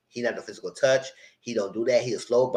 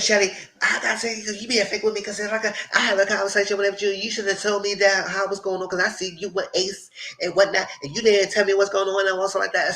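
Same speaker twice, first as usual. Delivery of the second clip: higher-pitched mock rant; retold confrontation in a raised pitch; imitated telling-off; 5 semitones higher than usual. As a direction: mimic someone going off on a friend. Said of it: "Amaya went off on Shelly".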